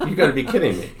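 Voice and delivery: mock private's laughing outburst; laughing disbelief. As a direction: scoff at the general's order with a laugh. Private doubting general, laughing.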